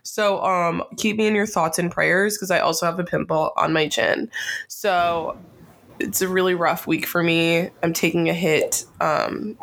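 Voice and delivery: hoarse from a summer cold; raspy cold-sick voice; smoker's rasp. Real, not acted. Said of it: "I don't normally sound like a chain smoker".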